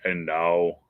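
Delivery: slow, grand announcer voice; lightly voiced movie trailer narrator; ride narrator. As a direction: draw out the intro like a show host. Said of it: "the narrator would be something like".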